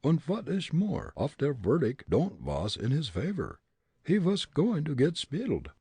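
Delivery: put-on thick comic German accent. A narrator's reading. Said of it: "Fritz's German dialect".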